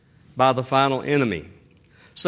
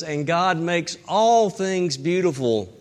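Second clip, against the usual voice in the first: gentle scripture reading. Shown as a demonstration. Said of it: "in Ecclesiastes three it says".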